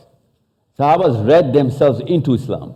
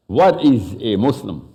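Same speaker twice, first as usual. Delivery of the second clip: slow, deliberate "What is", falling to the end; stress on IS. Real, not acted. Speaker puts the basic question to the audience, stress on IS. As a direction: spell out "What IS" word by word.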